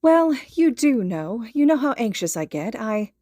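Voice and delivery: mother admitting her anxiety to a friend; mother's voice. Acted. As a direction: confess your worry as a fretting mum. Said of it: "she cuts off".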